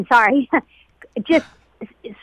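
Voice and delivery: real choked-up moment; real welling up mid-sentence; getting emotional. Real, not acted. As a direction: apologize while fighting back emotion. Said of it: "I'll get emotional now".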